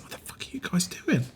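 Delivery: hushed whisper, no voice; a shocked whisper at the diners. Acted. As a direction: whisper it urgently to the group. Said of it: "He's like".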